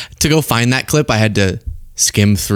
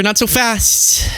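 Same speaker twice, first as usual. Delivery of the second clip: high, slow drawn-out warning; slow tease; 9 semitones higher, slower than usual. Acted. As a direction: stretch it out teasingly. Teasing retort, said twice.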